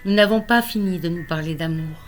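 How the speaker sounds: measured poem reading with pauses between phrases; poetry recital. Acted. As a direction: recite a love poem line by line. Reads own love poem aloud. (lecture de poème, posée)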